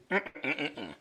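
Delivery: humming to clear an itchy throat; throat clearing hum. Real, not acted. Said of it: "My throat is itching".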